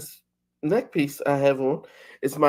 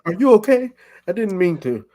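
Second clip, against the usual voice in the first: much higher, louder doting coo; baby talk to a pet; 10 semitones higher, 6 dB louder than usual. Retold or imitated. Friend joins in, doting baby talk to the dog. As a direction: fuss over the pet like a worried parent. Joking puppy-talk voice continued.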